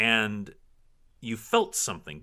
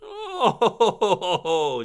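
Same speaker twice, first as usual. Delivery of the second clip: high, loud cackling "oh"; witchy cackle; 14 semitones higher, 9 dB louder than usual. Acted. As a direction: break the word into gleeful cackles. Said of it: "she really cackles".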